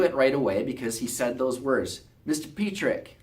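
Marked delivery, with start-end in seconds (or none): 2.2-3.2 a hint of a Georgia Southern accent. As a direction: imitate a Georgia accent calling his doctor's name. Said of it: "with his accent".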